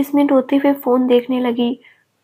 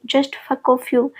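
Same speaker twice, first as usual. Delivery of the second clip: very slow, every word spat out; angry; much slower than usual. Acted. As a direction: drag out the insult. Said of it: "बेहद गुस्से में". (धीमा, चबाकर बोला गुस्सा)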